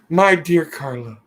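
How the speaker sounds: lightly voiced crooning suitor; mock sweet talk. Teasing Justin, lightly voiced lovesick crooning. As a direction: croon her name like a lovesick fool. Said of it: "'cause I'm going, "Oh, dear Carla".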